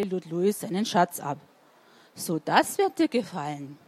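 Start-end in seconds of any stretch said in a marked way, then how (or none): 2.1-3.8 low, mildly satisfied storybook voice; contented. A narrator's reading. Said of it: "meinte er zufrieden". (zufrieden, mit tiefer Stimme)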